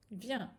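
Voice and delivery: teacher sounds out viens; reading out viens. Shown as a demonstration. Teacher reading a Hebrew word aloud to students. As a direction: say viens slowly and clearly.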